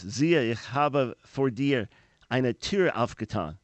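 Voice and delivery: slow, careful German with an American accent; poor German accent. Shown as a demonstration. Radio host reads the German card verse to listeners, slow American-accented German. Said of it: "Forgive my poor German accent".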